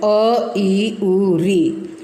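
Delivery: अ ई उ said slowly, one by one; slow short vowels. Shown as a demonstration. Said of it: "केवल एक मात्रा का समय". (ह्रस्व स्वर धीरे-धीरे गिनाते हुए)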